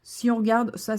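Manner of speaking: ordinary talk, nothing marked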